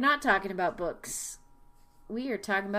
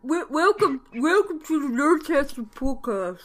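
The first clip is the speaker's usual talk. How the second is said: laughing intro; 4 semitones higher, 4 dB louder than usual. Real, not acted. Joking podcast intro.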